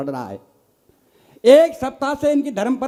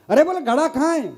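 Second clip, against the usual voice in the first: exasperated call; 5 semitones higher than usual. Retold or imitated. Husband calls wife in quarrel.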